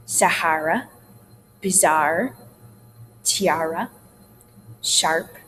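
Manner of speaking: "Sahara, bizarre, tiara, sharp" with wide AR vowels; spaced demo words, each AR broad; wide er sound. Shown as a demonstration. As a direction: open the AR wide in each word. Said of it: "do wide with their ers".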